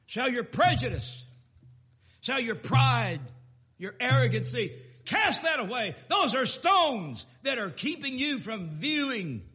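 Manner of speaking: loud, rising preacher's call; full-force preaching. Acted. Preacher urging the church, loud and ringing. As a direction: preach it out hard to the pews.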